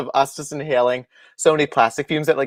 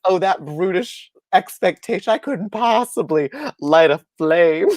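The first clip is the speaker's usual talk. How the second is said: damsel voice; 3 semitones higher, slower than usual. Pretend. Mocking helpless damsel.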